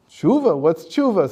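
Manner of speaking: high, loud baffled question; you have never heard the word. Acted. Satan asking the tribunal about repentance, high and baffled.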